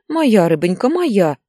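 put-on cooing cry over the little girl; lamenting. A narrator's reading. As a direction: grandmother wails to the granddaughter on her lap, doting. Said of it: "запричитала Наталья Ивановна".

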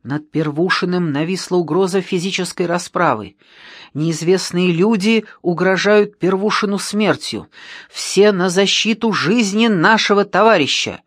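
mock school-radio bulletin, urgently proclaimed; rallying appeal over the school radio; radio announcement. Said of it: "объявить по школьному радио".

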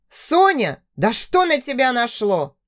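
calling out. Acted. Boss calls out, coming closer.

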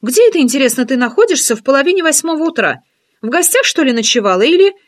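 teasing curiosity, lifted voice; friend's voice. Acted.

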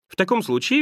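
light, cheerful retort. A narrator's reading. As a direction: answer back merrily. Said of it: "весело отозвался племянник".

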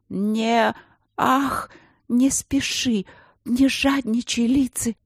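high, drawn-out lover's plea; acted amorous gasping plea; passionate plea. A narrator's reading. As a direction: plead with a lover, pitched well up. Breathless plea during love scene.

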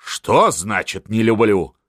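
slow, mildly surprised question; astonished. A narrator's reading. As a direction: draw it out in disbelief. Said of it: "удивился Миних". (медленно, с удивлением)

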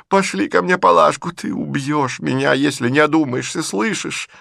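high, loud, fretful lady of the house; agitated old lady. A narrator's reading. Mother scolding Liza, high and fretful. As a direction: voice Marya Dmitrievna's anxious complaint. Marya Dmitrievna voiced, distressed.

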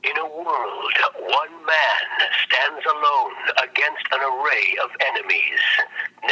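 slow, dramatic trailer announcer; movie trailer voice. Shown as a demonstration. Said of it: "la voz de trailer".

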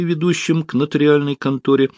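ordinary delivery

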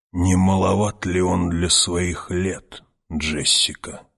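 put-on slow, rasping old witch; old woman voice. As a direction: croak it like an aged crone. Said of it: "резкий дребезжащий голос звучал, как расстроенный балисет". (голос дряхлой старухи)

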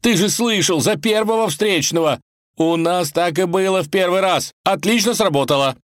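высоко и громко, в восторге; горячо убеждает; азартно. Acted. Иван в азарте рвётся. (возбуждённо и громко)

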